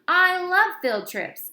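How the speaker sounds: a hint of a slow, high gushing girl; lightly voiced eager teacher's pet. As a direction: gush it out sweetly. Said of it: "said this annoying girl".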